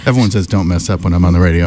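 breathless after the stairs; out of breath. Real, not acted. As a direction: talk while catching your breath. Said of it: "Oh, I'm out of breath".

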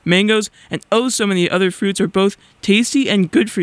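bright, measured PSA announcer read; radio ad read. Acted. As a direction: read it like a public service ad. Reads an on-air PSA.

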